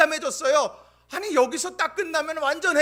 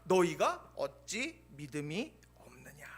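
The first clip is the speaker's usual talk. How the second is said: whispered rebuke; 11 semitones lower, 8 dB quieter, slower than usual. Acted. Pastor giving the same rebuke differently, a slow whisper. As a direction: whisper 너희가 어찌 믿음이 없느냐, low and slow. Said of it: "같은 말씀을 다르게 표현하는".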